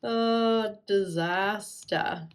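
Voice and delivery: dismayed shout. Real, not acted. Ink glob spills.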